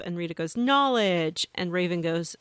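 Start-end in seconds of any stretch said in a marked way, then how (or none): 0.6-1.5 loud, emphatic slogan; battle cry. Acted. Game character following her teammate's line, emphatic mock battle cry. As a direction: call it out like a finishing move. Repeating Rita's finisher slogan.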